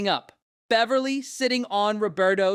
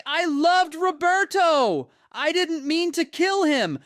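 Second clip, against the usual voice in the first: higher, slow fake Italian accent; 4 semitones higher than usual. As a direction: put on a hammy Italian accent. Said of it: "rocking a fake Italian accent".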